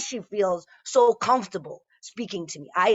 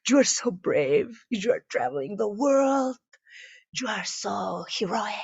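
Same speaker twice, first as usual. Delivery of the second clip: lightly voiced doting Mexican mother; proud Mexican mom. Mexican mom on the phone praising her daughter, doting. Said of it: "her Mexican mom was like".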